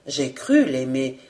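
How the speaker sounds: low, slow, honest admission; perfectly sincere. A narrator's reading. Reporter answering the young woman about a past love, sincere. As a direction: confess it slowly and frankly, low in pitch. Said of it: "avec un accent de loyauté parfaite".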